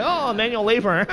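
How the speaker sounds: weakling's mock lament; mock pansy whine. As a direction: play the wimp moaning about chores. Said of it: "I'm just a pansy".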